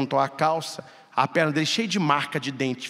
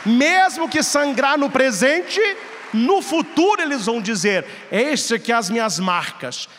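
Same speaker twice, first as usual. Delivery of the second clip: fervent preaching; 9 semitones higher, 4 dB louder than usual. Acted. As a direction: drive the call home from the pulpit. Preaching application at full force. (pregação inflamada, alta e lenta)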